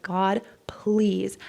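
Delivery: breathy imitation of a desperate prayer; pleading prayer. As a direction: half-whisper a plea to God. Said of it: "I prayed every day".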